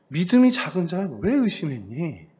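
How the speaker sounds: slowed, voiced rebuke; stern teacher-like reproach; scolding. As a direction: scold the doubting disciple. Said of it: "이렇게 혼을 내신다는".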